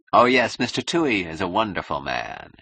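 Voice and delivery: hollow, mocking praise; disrespectful agreement. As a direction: agree with no respect at all. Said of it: "It was flagrantly devoid of respect".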